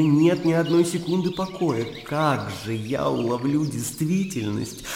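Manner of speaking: impassioned speech swelling and falling; heated, searching outburst at a friend; agitated tirade. Acted. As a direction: argue heatedly, with mounting anguish. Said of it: "А ты вот кричишь".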